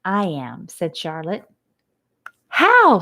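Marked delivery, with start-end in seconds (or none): 0.0-0.7 calm. Acted. Charlotte calm. 2.5-3.0 eager. Acted. Wilbur eager.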